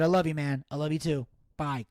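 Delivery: low-pitched, tender sign-off; understated retold fondness; subdued affection. Making up after retold quarrel.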